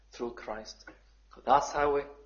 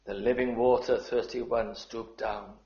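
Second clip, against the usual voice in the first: tender reread. Shown as a demonstration. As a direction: savour the words gently, dropping away. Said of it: "I just love those words".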